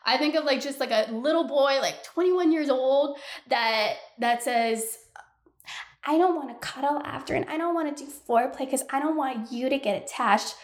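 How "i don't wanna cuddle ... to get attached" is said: lightly voiced dismissive guy; mock guy voice. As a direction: imitate the shallow hookup guy, a little fast. Mocking a hookup guy's excuse.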